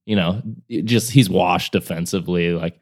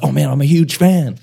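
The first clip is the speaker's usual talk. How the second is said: high mocking voice for a fake fan; mocking the hater; 8 semitones higher, 4 dB louder than usual. Imitating the hater's fake flattery, high and mocking. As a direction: squeak it like a two-faced fan. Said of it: "be like".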